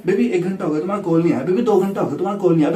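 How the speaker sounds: put-on quick, repetitive girlfriend nagging; imitated nagging girlfriend. Man mimicking girlfriend complaining he hasn't called, quick mock nagging. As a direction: rattle it off like a girlfriend counting the hours.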